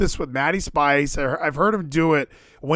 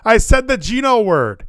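loud, higher mock cry of dismay; cringing outburst; 4 semitones higher, 6 dB louder than usual. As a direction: blurt it out as if cringing at yourself. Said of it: "I feel, I cringe".

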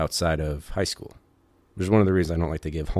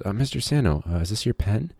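put-on kid voice; 5 semitones higher than usual. Little kid asks Santo.

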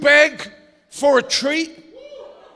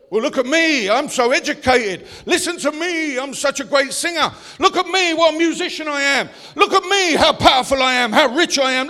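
mock boasting; 5 dB louder than usual. Pastor mocking a proud believer's bragging, building loud mock boast. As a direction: ham up a puffed-up show-off.

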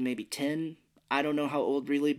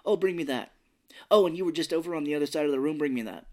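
bossy mom; 3 semitones higher than usual. Retold or imitated. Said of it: "my mom would be like".

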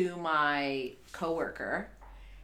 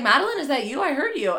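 mom voice; 7 semitones higher, 8 dB louder, faster than usual. Retold or imitated. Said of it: "she was like".

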